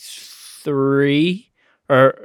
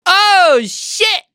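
sudden high yelp of surprise; surprised. Real, not acted. Host learns friend's birthday is in two days, high surprised yelp. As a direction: blurt it out, caught off guard.

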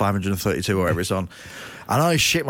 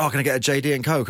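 customer voice; 5 semitones higher, faster than usual. Retold or imitated. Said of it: "Someone go".

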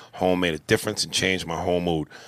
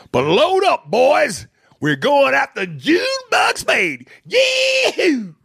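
mob leader shout; 5 dB louder, slower than usual. Acted. Daddy rallies the mob.

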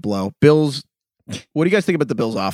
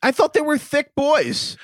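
mock dopey voice; 12 semitones higher, slower than usual. Teasing a friend's guess.

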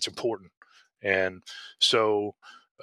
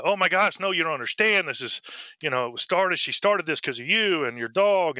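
imitating her gushing, higher-pitched insistence; excited; 6 semitones higher than usual. Excited woman explaining the charity to the officer, gushing. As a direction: act out an eager caller bursting to explain. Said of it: "she was so excited".

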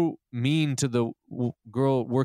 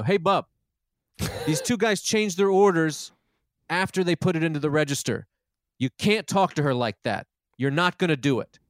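raised, higher call-out at the manager; sharp public telling-off, louder and higher; retold yell; 4 semitones higher than usual. Man in line telling off airport manager, loud and high. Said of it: "I screamed very loudly".

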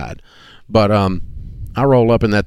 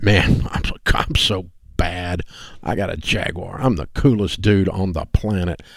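smug self-satisfied; 3 semitones lower, 4 dB quieter than usual. Retold or imitated. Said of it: "And I thought".

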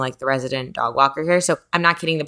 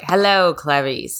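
Hannibal Lecter imitation; slower than usual. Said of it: "like, Silence of the Lambs".

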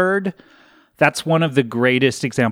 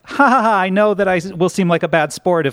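nervous laugh; 4 semitones higher, faster than usual. Retold or imitated. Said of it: "she laughs nervously".

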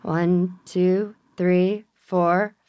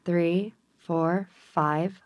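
slow breathing count, fading softer; counting slowly; 4 dB quieter, much slower than usual. Shown as a demonstration.

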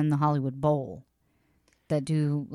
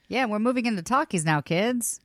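fast, bright 1930s radio announcer voice; old radio announcer; 2 semitones higher than usual. Acted. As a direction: talk like a newsreel announcer from the thirties. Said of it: "My nineteen thirties radio voice is back".

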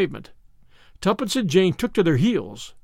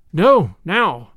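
louder, insistent refusal; raised voice; 6 dB louder than usual. A narrator's reading. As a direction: insist firmly, voice lifting. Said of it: "Her voice rose a little".

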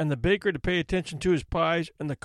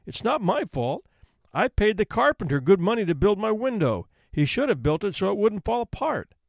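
pleading; 4 semitones higher than usual. Acted. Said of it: "he pleaded".

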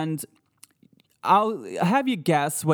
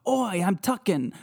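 British ghost imitation; 5 semitones higher than usual. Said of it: "it does sound British".

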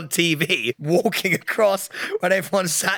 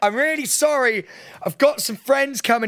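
higher-pitched, insistent apology over crowd noise; repeating to be heard; 7 semitones higher than usual. Retold or imitated. Guest pleading with a bouncer who can't hear, raised pitch. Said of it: "Sorry, I can't hear you".

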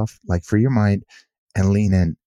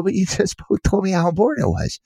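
high, laughing protest; laughing disbelief; 12 semitones higher than usual. Retold or imitated. Author to father and daughter, laughing in disbelief. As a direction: laugh at the contradiction. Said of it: "And I go".

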